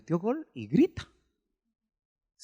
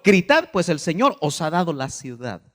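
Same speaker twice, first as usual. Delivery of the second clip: commanding call; 2 semitones higher, 7 dB louder than usual. Acted. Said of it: "Josué dijo al pueblo".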